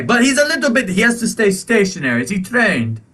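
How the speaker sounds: high, grudging and flustered; reluctantly allow the service horse; flustered shopkeeper. Acted. Shopkeeper grudgingly accepting the service horse, high and flustered. Shopkeeper keeps talking in character.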